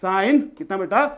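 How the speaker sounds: very slow, each word set apart for note-taking; slow dictation. Shown as a demonstration. Teacher dictating the formula to students, very slow. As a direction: dictate it slowly so students can write. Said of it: "ध्यान से लिखिएगा".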